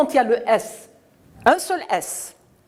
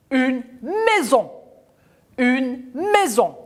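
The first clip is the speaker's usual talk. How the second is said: slow modelled word; 4 semitones higher than usual. Shown as a demonstration. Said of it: "teacher models the word".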